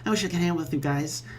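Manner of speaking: lightly voiced lonely troll; a wistful, self-pitying friend.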